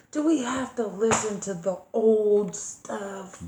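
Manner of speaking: slow whine, lightly imitated; a hint of a put-upon child; complaining child. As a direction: mimic your kid's weary complaint. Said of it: "my baby hate when I turn that shit on".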